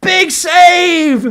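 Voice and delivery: high giddy laugh through the words. Real, not acted. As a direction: laugh in disbelief at the save. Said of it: "I don't know why I'm laughing".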